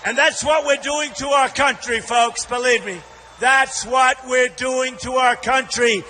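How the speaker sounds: rally speech. Real, not acted. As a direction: fire up the crowd. Rally crowd address.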